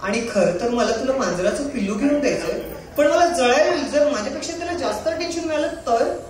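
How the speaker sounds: lightly plaintive stage monologue; tearful monologue. Acted. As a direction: perform a heartfelt plea to a beloved, only a touch weepy. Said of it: "थोडा रडका आहे". (किंचित रडवेल्या सुरातील नाट्यमय स्वगत)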